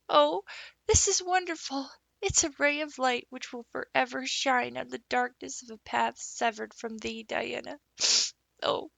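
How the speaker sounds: put-on a girl amazed to be loved; overjoyed dramatic girl. A narrator's reading. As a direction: orphan girl marvelling at friendship. Anne overjoyed, dramatic speech.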